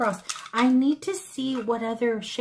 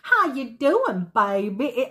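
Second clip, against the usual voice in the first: slow, louder, higher stab at Louisiana Creole; attempted Creole accent; 3 semitones higher, 5 dB louder, slower than usual. Favorite volunteer greeting her, in an attempted Creole accent. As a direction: badly imitate a Creole accent, stretching the words. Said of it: "I can't do the accent".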